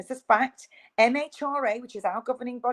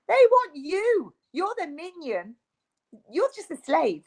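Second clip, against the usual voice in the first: intense; 7 semitones higher than usual. Real, not acted. Ranting about elites.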